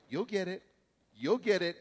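patient mother. Retold or imitated. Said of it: "she was so patient".

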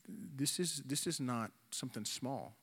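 whispered through tears, voice barely there; tearful whisper. Retold or imitated. Pastor recalling his dad's offer, a tearful whisper. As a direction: half-whisper it like you're fighting tears. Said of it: "tears going down my face".

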